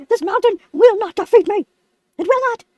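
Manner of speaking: emphatic, mock-heroic vow; frustrated resolve. Lemon vowing the mountain won't defeat him, frustrated. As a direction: declare it through acted frustration. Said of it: "'cause I'm so frustrated".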